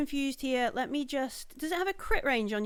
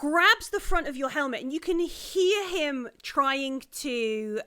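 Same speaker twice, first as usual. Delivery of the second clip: slow, deliberate action narration; game master drawing out the moment; game master's scene setting; 3 semitones higher, slower than usual. Acted. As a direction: narrate the attack with suspense.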